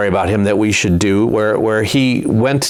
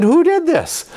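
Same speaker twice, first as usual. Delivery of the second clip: Philistines demanding. Acted. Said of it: "the Philistines looked around and they said".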